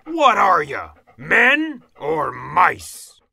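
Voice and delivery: loud, high rebuke to troops; scolding officer's bellow; Big Cheese. A narrator's reading. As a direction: shout it as a challenge, drawing out the end. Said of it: "shouted the Big Cheese to his troops".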